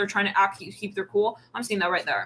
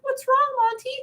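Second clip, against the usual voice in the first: mock concerned friend.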